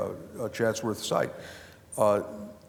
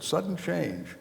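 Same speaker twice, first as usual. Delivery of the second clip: a smiling, quieter repeat pitched higher; said with a smile; 7 semitones higher, 4 dB quieter, slower than usual. Retold or imitated. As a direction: say it through a smile, amused. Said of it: "with a smile on my face".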